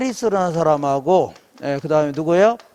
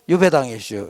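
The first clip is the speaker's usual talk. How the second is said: low Chungcheong dialect ending; Baek Jong-won; 5 semitones lower than usual. Shown as a demonstration. Lecturer answering his own quiz, Chungcheong accent. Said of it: "이렇게 백종원 버전이죠".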